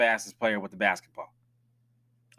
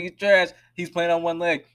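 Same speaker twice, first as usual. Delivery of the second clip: mock fan rant; 5 semitones higher, 4 dB louder than usual. Imitating fans.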